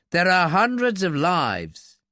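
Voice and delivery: slow, earnest appeal, falling at the end; weary pleading. A narrator's reading. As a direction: press home how much is at stake. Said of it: "Mallory pleaded wearily".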